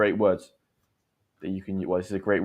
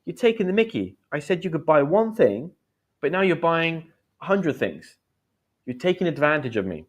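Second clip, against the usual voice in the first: higher-pitched, lightly acted protest; mild complaint; 5 semitones higher than usual. Lender confronting overspending friend, mildly indignant. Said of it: "I could say to you".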